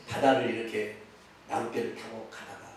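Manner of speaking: normal talking voice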